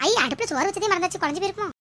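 startled, high-pitched remembering; sudden alarm. Acted. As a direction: blurt it out as if you just remembered the stove. Suddenly remembers rice on stove. (திடீர்ப் பதற்றம், உயர்ந்த குரல்)

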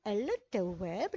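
ال التواب with a separate, pronounced lam before atewab; wrong example. Shown as a demonstration. Teacher demonstrates the wrong reading to learners. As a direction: sound out ال as el, then التواب, to show the mistake. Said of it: "لا نستطيع قول ال التواب".

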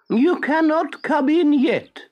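high, very slow creature voice; slow snail. A narrator's reading. The snail answers Pinocchio from upstairs, very slow. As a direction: stretch every word lazily. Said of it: "she said".

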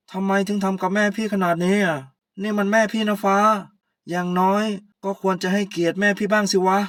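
husband scolds his wife loudly for his mother's sake; angry scolding. Acted. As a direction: lay into her for disrespecting his mother.

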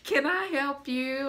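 imitated sweet, eager shop worker; sweet helper. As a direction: offer help as sweetly as can be. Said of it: "just as sweet as he can be".

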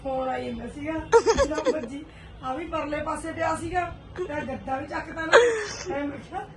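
laughing. Real, not acted. Telling her fall while laughing.

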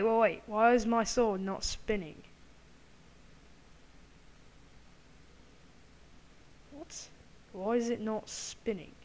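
hammed-up fake British accent; amateur mock-British accent; put-on British accent. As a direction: talk in a badly faked British accent.

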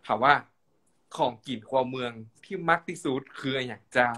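Northern Thai interviewer; Northern Thai dialect. Shown as a demonstration. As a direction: ask it in kham mueang. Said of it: "สัมภาษณ์เป็นคำเมืองนะเจ้า".

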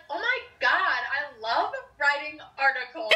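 put-on Valley Girl voice. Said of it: "we do a Valley Girl voice".

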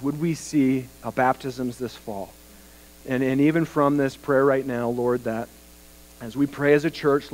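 even, restrained praying voice; congregational prayer. Real, not acted. Pastor praying aloud with his church for laborers, earnest prayer. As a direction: lead them in earnest, steady prayer.

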